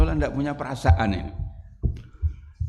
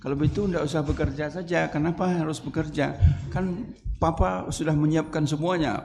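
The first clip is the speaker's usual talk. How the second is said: calm soothing husband; 3 semitones higher, 4 dB quieter than usual. Retold or imitated.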